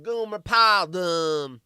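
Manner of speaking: lightly voiced dopey Southerner; mock a dim Southern man a little. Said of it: "kinda, kinda dopey sounding".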